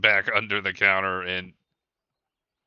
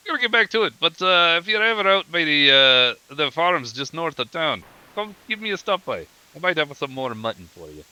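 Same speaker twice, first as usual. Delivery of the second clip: high, cheery dwarf farewell; 6 semitones higher than usual. Acted. Dwarf farmer inviting the party in a high voice. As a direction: pitch up and chatter friendly.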